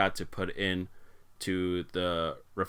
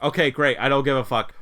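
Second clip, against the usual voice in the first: retold sarcastic retort; 4 semitones higher, 6 dB louder than usual. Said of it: "And I was like".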